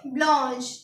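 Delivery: French pronunciation of ब्लॉन्श; French blanche. Shown as a demonstration. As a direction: say ब्लॉन्श as blonsh. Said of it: "white को हम पढ़ेंगे".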